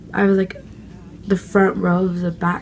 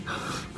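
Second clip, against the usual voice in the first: sharp excited gasp; 15 dB quieter than usual. Retold or imitated. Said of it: "And I was like".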